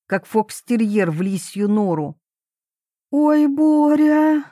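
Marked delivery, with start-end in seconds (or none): 3.1-4.4 high, drawn-out startled squeal; squeak. A narrator's reading. Wife caught by her husband in the tent, squeaking. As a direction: squeak it slowly, much higher. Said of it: "пискнула мамуля".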